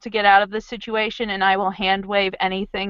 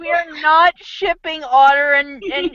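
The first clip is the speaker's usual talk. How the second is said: laughing protest; 5 semitones higher than usual. Real, not acted.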